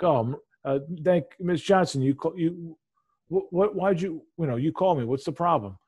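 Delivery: a lightly voiced naive victim; playing dumb. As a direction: act clueless to string the scammer along. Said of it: "I'm playing it up".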